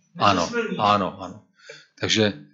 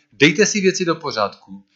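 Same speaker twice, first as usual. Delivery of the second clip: "dejte" raised higher as a firm command; preaching John's call; 6 semitones higher than usual. Acted. John urges hearers to set things right, raised preaching. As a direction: urge them like a prophet. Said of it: "Jan káže".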